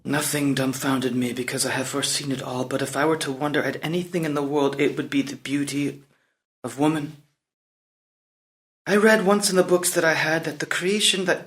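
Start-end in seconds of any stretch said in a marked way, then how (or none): 0.0-7.2 low, hushed musing; soft reverie. Acted. Prince reflects on the beauty of woman, soft reverie. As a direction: let the voice drop into quiet wonder.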